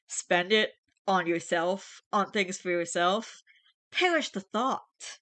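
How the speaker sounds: slow, hammed-up mock horror; 1 mock scandalised. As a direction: feign shock at the very idea. Mock outrage reading comment.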